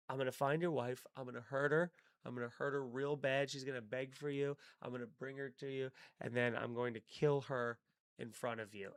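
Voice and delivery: lightly voiced calm villain, dropping away; menacingly calm villain. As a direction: recite the villain's threat calm and cold, letting it fade. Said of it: "It was so menacingly calm".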